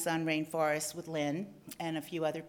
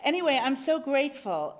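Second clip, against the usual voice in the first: higher and louder, moved and grateful; emotional thanks; 6 semitones higher, 6 dB louder than usual. Real, not acted. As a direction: let the feeling break through on "so grateful". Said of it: "Ah, I'm getting emotional".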